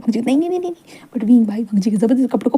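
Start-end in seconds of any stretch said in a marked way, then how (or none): 0.2-1.1 1 pleading no. Acted. Wang pleading no.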